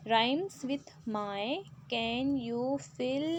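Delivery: slow, deliberate reading of an English instruction; slow textbook read. Acted. Teacher reads the book's question to pupils, slowly. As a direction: read each word out slowly for the class.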